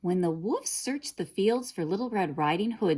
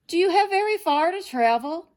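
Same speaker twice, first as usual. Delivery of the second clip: sly wolf; 12 semitones higher, 7 dB louder than usual. A narrator's reading. Wolf probing girl.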